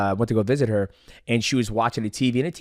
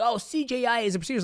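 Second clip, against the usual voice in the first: mocking everybody; 12 semitones higher, 4 dB quieter than usual. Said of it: "Everybody's like".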